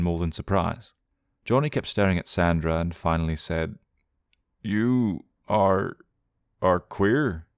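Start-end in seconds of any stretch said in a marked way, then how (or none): 4.6-7.5 choked out. Acted. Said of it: "choked out of him".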